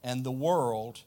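Bible verse read out with a lift at the start; scripture reading. Acted. Reads scripture verse aloud.

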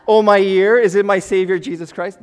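loud, high, hammed-up exclamation; over-the-top joyful outcry; mock overjoyed recognition. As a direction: gush in exaggerated amazement. Mock overjoyed disciples recognizing Jesus.

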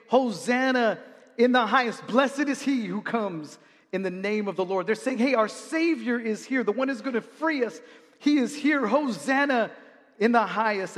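lightly voiced cheering crowd; a hint of a joyful crowd hailing; crowd praising.

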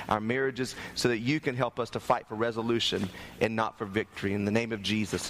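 phrase-by-phrase prayer, sinking in pitch toward the close; public prayer. Real, not acted. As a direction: lead the congregation in prayer. Leads congregation in prayer.

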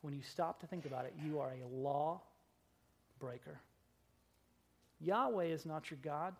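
calm quiet Jesus. Acted. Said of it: "Jesus says very calmly".

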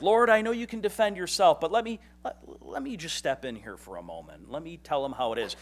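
high, loud mock eager plea to the Lord; mock self-righteous plea. Pastor mocking himself, a high, loud eager plea. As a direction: play the eager know-it-all stepping in for God.

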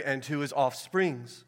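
slow, leaning on the plural "offsprings"; stress on offsprings. Shown as a demonstration. Preacher stressing the plural "offsprings". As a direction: draw out "offsprings" with its final s. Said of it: "referring to many".

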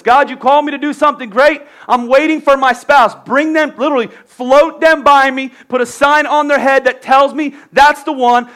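hammed-up list of demands to God; mock demanding prayer. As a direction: believer bossing God around.

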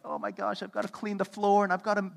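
flustered host racing to get ready; frantic rush. Retold or imitated. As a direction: panic about cleaning before guests. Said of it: "we'd be like".

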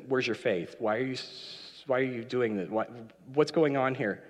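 softly acted puzzled questioning; gentle, not mad. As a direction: question him softly, without anger. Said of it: "I don't think that Jesus was mad".

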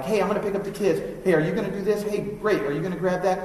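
loud, hurried household check-ins; on-the-fly chat. Acted. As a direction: toss out quick errands in passing, loudly. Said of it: "maybe we've only talked on the fly".

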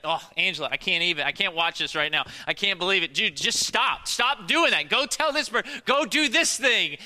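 building to a high loud yell. Retold or imitated. Husband yelling at a TV show to his wife, loud. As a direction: yell urgently at the screen, rising. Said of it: "I'm, like, yelling at it".

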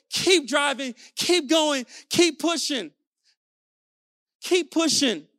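loud, urging call to keep pushing; rousing shout. Real, not acted. Speaker rallying his audience to push on, loud and urging. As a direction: drive them forward with a rallying shout. Motivational coach urging listener on.

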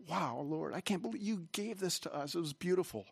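mild awe, voice lifted high; retold grateful wonder. Pastor recalling thanks to the Lord for the building, in wonder. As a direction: recall marvelling at a gift from God.

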